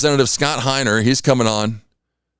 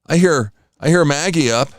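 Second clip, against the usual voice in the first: higher, eager cat voice, lightly put on; voicing the cat; 4 semitones higher than usual. Owner voices the cat wanting food at dawn, higher and eager. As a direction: play the cat begging for breakfast. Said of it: "because she's like".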